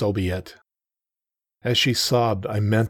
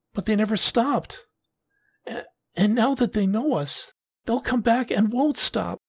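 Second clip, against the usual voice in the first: higher woman's voice, guilty and pleading; Taki, distressed; 13 semitones higher than usual. Acted. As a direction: plead through her own guilt. Taki blames herself.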